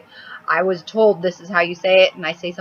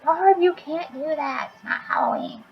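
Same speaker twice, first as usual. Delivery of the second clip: a hint of bossy boss; 11 semitones higher than usual. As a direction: lightly play the boss scolding, pitched up. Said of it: "be like".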